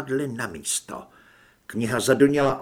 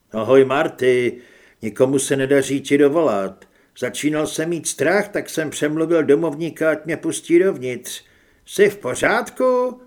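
louder voice of a concerned friend calling in; worried friend Carlos; 6 dB louder than usual. Acted. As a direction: call out to a friend, checking on him. (ustaraný kamarád, hlasitěji)

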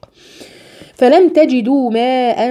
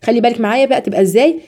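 normal talking voice

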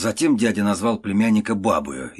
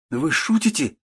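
put-on exclaiming young man; 8 semitones higher than usual. A narrator's reading. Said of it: "вскричал молодой человек".

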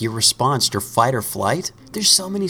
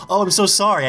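mock flustered apology; 8 semitones higher than usual. Apologising after startle.

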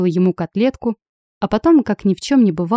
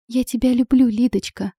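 нежно; 4 semitones higher than usual. Acted. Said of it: "ещё раз повторила Виола".

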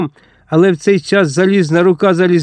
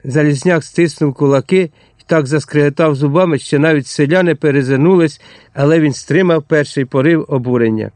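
ordinary delivery, nothing marked

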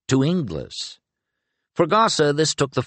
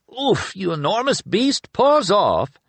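high startled oof, then a louder paws off; startled grumble; 13 semitones higher, 3 dB louder than usual. A narrator's reading. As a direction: yelp as the dog treads on you. Dog steps on Penrick.

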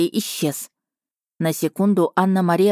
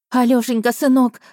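high, loud tearful cry; sobbing relief; 5 semitones higher, 3 dB louder than usual. Acted. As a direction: sob his name with relief. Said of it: "всхлипывая".

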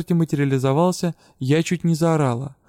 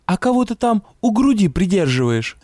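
curious ghost; 5 semitones higher, 4 dB louder than usual. A narrator's reading.

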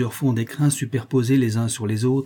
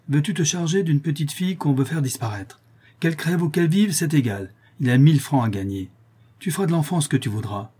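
lightly voiced shady accomplice; 5 semitones higher than usual.

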